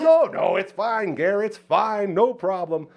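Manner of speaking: high, loud waving-off of an apology; singled-out high voice of the visitor; imitated reassurance. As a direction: act out a guest insisting all is well.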